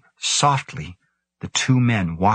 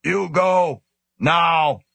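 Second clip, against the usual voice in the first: high-pitched rasping ape command; an angry gorilla forcing out human words; 10 semitones higher, much slower than usual. A narrator's reading. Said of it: "it said in a rasping voice".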